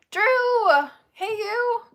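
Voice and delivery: loud, high hammed-up holler; big mock fanboy hello; imitating delighted greeting. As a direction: call out as if spotting a favorite.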